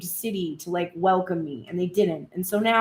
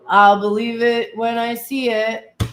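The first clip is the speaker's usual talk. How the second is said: louder, sceptical jab; sceptical quote; 6 dB louder than usual. Retold or imitated. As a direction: throw the doubt out loud. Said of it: "type comments like".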